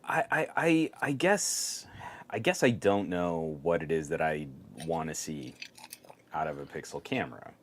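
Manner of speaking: audio dropouts; audio dropping out. Real, not acted. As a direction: voice cutting in and out. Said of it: "your audio keeps going out".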